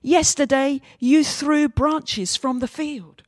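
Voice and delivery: reminding them of yesterday's parade; donkey complaining loudly and slowly to the crowd; indignant shout. Acted. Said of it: "he shouted".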